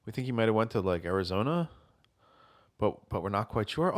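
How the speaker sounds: quiet, low, slowed solemn fake; hushed grave tone. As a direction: murmur it like bad news. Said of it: "And I was like".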